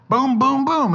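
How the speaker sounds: high, loud playful pounding; rising comic pounding; excited booms. Pretend. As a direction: hammer it out with glee. Acting out tenderizing meat.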